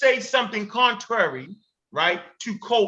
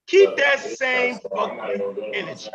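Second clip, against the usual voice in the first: slow challenge; 2 semitones higher than usual. Real, not acted. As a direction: lean on every word and throw down the challenge. Calling out a rival's threat.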